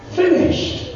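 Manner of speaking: a breathy high whisper of the word; whispered last word. Acted. Preacher voicing Jesus' final word on the cross, whispered. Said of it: "this was his final word".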